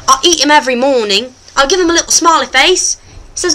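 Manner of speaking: hammed-up British presenter accent; put-on British accent. The host talks to viewers, put-on British accent. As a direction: play a chatty host in mock British.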